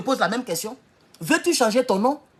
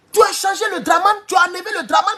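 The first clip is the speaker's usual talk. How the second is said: raised, shouting protest at the name change; indignant shout; 6 semitones higher than usual. Real, not acted. Speaker to listeners, outraged about Dramane dropping the name, shouting.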